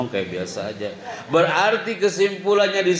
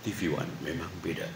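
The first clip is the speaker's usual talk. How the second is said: low, quiet tagline read; deep announcer voice; 8 semitones lower, 13 dB quieter than usual. Shown as a demonstration. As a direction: voice it like a TV station ident. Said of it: "cuma ngomong". (suara penyiar TV yang dalam)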